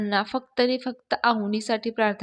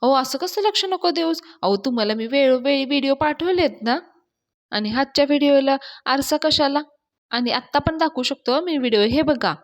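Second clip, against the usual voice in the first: mock pleading act; 4 semitones higher, 3 dB louder than usual. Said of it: "नाटक continue करत".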